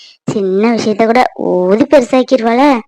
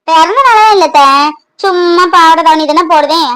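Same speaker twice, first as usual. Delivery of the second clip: put-on higher, louder girlish chatter; bubbly denial; 4 semitones higher, 4 dB louder than usual. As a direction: gush happily to the aunt. Maha answers aunt excitedly.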